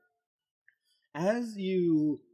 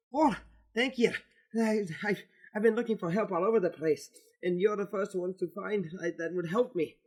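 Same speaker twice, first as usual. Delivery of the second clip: put-on lightly accented, higher-pitched elf voice; a touch higher, grateful for help; lightly voiced elf pleading for aid; 3 semitones higher than usual. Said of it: "accented, higher-pitched voice".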